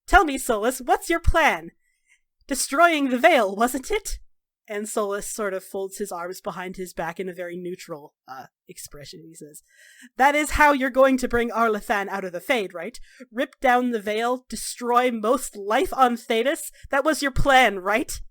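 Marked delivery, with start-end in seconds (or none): 0.1-4.2 raised, pointed questioning; heated cross-examination; accusing challenge. Acted. Acted confrontation over a plan. 10.2-18.2 loud, insistent confrontation; emphatic, angry questioning; heated accusation. Acted. Acted accusation, cutting the other off.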